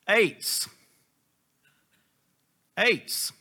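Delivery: "ates" said like "eights"; strange pronunciation. Shown as a demonstration. Preacher shows congregation how the Hebrew word sounds, "ates" like "eights". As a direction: present "ates" alone, as the word "eights" with a falling end. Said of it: "it has a strange pronunciation".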